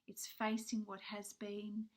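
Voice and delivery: hoarse voice giving out; losing voice. Real, not acted. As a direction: voice fading to a husky half whisper. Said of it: "Sorry, I'm losing my voice".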